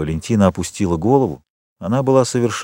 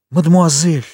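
«Мадемуазель!» thrown back higher and louder; «Мадемуазель!» as an offended cry; exclaimed; 8 semitones higher, 4 dB louder than usual. Acted. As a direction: hurl the word back at him, hurt. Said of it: "воскликнула Валентина".

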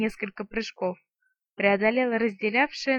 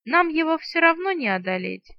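higher, louder mock fright; hammed-up fear; 7 semitones higher, 5 dB louder than usual. A narrator's reading. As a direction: overplay the fear. (наигранный испуг)

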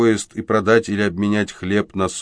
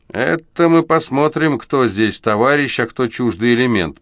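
through gritted teeth; 5 semitones higher, 4 dB louder than usual. A narrator's reading. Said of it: "процедил человек в кожанке".

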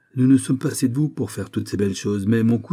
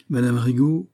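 tranquil; 4 semitones higher than usual. Acted. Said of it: "dit tranquillement".

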